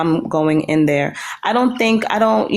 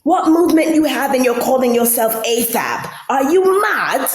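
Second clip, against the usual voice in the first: high exasperated mock scolding; hammed-up high voice cussing her out; 6 semitones higher than usual. Quoting Envy scolding her, high mock exasperation. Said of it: "They said".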